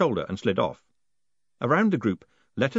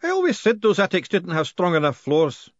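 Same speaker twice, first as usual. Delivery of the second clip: moaned; 8 semitones higher, 4 dB louder than usual. Acted. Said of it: "moaned the worshipful master".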